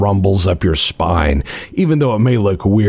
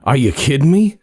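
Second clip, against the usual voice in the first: higher scoffing gangster voice, pitched up throughout; boastful gangster; 7 semitones higher than usual. Acted. Informant scoffs at the party, high and cocky. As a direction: brag like a cocky informant who can't believe you asked.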